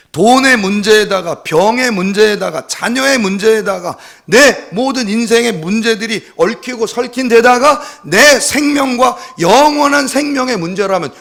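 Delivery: loud, high pulpit oratory; impassioned preaching. Real, not acted. Preacher asking congregation whom to cry to, impassioned. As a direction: build the list with rousing force.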